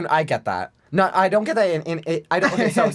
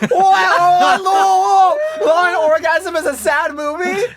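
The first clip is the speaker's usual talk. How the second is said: high laughing shock; 12 semitones higher, 6 dB louder, much slower than usual. Real, not acted. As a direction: shriek it through laughter.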